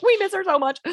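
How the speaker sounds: high, sing-song cooing voice; cooing baby talk. Retold or imitated. Parents missing their baby, cooing high. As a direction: gush like over a baby.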